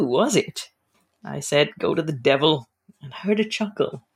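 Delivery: steady storytelling read of a chapter; novel reading. Acted. Author reading her mystery chapter to the host, storytelling voice.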